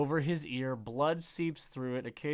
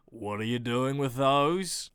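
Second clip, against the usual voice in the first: Australian man; 3 semitones lower than usual. Acted. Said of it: "deep voice Australia man".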